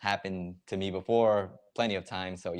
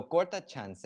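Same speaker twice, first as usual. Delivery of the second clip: slow teaching pronunciation; 7 semitones higher than usual. Shown as a demonstration. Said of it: "I guess it's two words technically".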